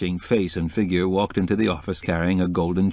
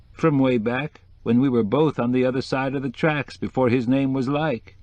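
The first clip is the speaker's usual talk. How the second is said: lightly voiced decorator, a little higher; reminiscing decorator; 5 semitones higher than usual. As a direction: recall old times as the chatty decorator. Decorator recalls his rival.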